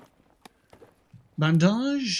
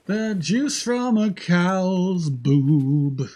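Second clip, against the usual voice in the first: put-on voice; 4 dB louder, much slower than usual. Slow put-on voice defining milk.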